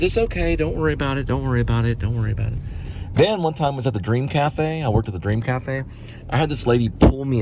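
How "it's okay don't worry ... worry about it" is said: retold reassurance. Woman reassuring the sorry waiter.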